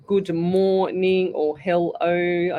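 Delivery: "good morning or hello" drawn out slowly, part by part; slow, separated syllables on "good morning" and "hello"; broken-up greetings. Shown as a demonstration. Psychic showing followers the greetings they avoid, "good morning or hello" slowly broken up. Breaking greetings into their parts.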